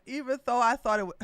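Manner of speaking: a light imitation of Herschel, fast; lightly voiced Herschel, rushed; a hint of Herschel, quick; Herschel Walker voice. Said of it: "let me stop talking like him".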